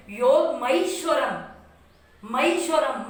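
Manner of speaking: 'मईश्वरम' म-ई अलग, धीरे; 'मईश्वरम' में मई साफ़ खींचो; मई उच्चारण. Shown as a demonstration. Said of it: "मई पढ़ेंगे". ('योग मईश्वरम' धीमे, मई पर ज़ोर)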